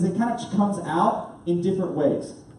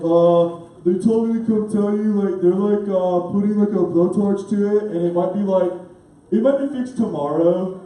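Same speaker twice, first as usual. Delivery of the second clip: put-on clueless teenager; 4 dB louder than usual. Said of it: "like, a teenager guy".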